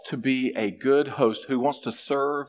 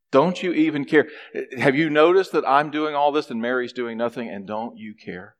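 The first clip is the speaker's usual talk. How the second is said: mild exasperation. Acted. Martha complains to Jesus about Mary, mildly exasperated. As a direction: lean into the hurt, then let it drop.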